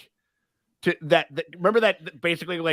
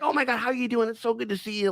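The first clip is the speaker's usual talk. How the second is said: higher-pitched imitated hello; mock gushing greeting; 7 semitones higher, 3 dB quieter, faster than usual. Podcaster imitates greeting Grogu on pickup, mock gushing. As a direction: gush lightly in a raised voice. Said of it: "he goes like".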